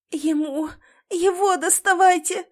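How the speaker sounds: high, loud demand; wife shouting at rescuers to free her husband; urgent shout. A narrator's reading. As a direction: make them go to him. Urging rescuers.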